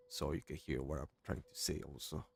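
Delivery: quiet, held-back voice; low voice. Real, not acted. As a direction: keep it low so nobody wakes. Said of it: "I'm in my low voice right now".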